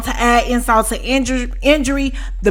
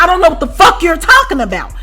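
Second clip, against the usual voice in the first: higher, irritated retelling of a comeback; heated retort; 5 semitones higher, faster than usual. Retold or imitated. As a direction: push back at the accuser, exasperated. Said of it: "I tell her just like that".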